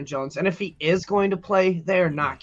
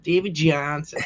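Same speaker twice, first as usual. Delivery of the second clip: mock Boston accent on David Johnson; slower than usual. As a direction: imitate a light Boston accent. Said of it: "a Boston accent".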